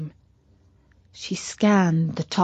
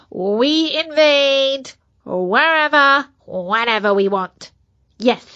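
boastful germ voice. Acted. Virus brags at length.

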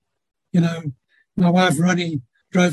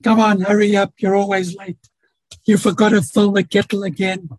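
impatient nagging tone; 3 semitones higher than usual. Retold or imitated. Nagging partner scolding about lateness, mildly exasperated. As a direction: snap it out, impatient and fed up. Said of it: "this tone of voice".

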